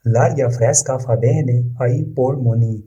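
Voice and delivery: very slow, each word laid out for learners; slow model reading. Shown as a demonstration. Teacher reading the Italian example to learners, slow and careful. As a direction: read it slowly so students can repeat. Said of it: "teacher models Italian sentence".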